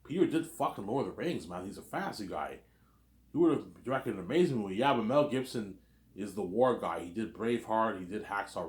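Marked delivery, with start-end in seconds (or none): 0.1-4.8 mock shocked. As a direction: act out a mild, disbelieving outcry. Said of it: "the people will be shocked".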